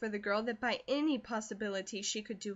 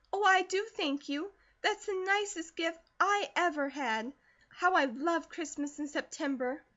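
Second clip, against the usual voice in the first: much higher, gushing thanks; breathless delighted gushing, much higher and louder; overjoyed girl; 7 semitones higher, 4 dB louder than usual. A narrator's reading. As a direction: tumble out the joy, much higher. Girl thrilled by lunchbox.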